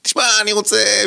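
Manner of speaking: put-on high, loud French-accented Hebrew. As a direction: imitate a friend's French accent. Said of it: "מבטא צרפתי".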